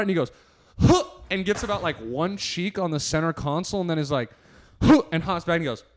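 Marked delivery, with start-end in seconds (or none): 0.8-1.0 short mock straining grunt; quick "huh" of effort. Acting out failed climb over console. 4.8-5.0 short mock straining grunt; quick "huh" of effort. Acting out second climbing attempt.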